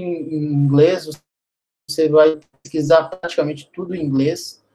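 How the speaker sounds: choppy connection, words dropping out; voice cutting out. Real, not acted. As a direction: voice freezing and breaking up on a bad call. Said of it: "Sua voz tá falhando muito".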